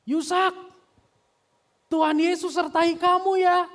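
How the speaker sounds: full-voiced, very high shout; loud, soaring call to a son; Bapak Pendeta Ceng Kim Guan shouting. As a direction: holler it across a car park. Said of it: "Bapak Pendeta Ceng Kim Guan gogorowokan".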